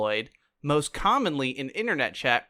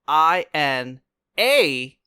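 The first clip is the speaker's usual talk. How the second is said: spelled out slowly; letter by letter, slow and deliberate; slow spelling; slower than usual. Shown as a demonstration. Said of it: "spelling out the misspelling slowly".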